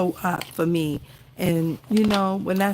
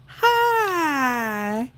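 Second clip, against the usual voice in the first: tearful; 6 semitones higher than usual. Real, not acted. Tearful greeting to old supporter.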